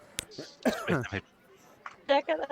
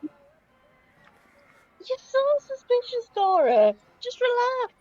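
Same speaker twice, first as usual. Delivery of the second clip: teasing drawl; 9 semitones higher, much slower than usual. Acted. Teasing a party member in character.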